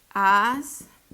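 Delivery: "Ásperamente" as "Ás ... pe ... ra ... men ... te"; syllable by syllable. Shown as a demonstration. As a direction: pause long after each syllable of "Ásperamente". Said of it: "dividámosla". ("Ás ... pe ... ra ... men ... te", sílaba por sílaba)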